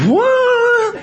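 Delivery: sudden high squeak of surprise; shocked high yelp; stunned what. Retold or imitated. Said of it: "And I went, said".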